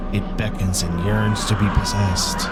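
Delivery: storyteller reading a mysterious description; game narration. A narrator's reading. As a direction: read the game text out dramatically. Reads game text aloud.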